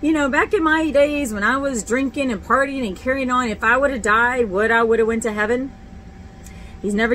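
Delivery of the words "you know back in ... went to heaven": pleading prayer. Retold or imitated. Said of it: "I asked God off and on".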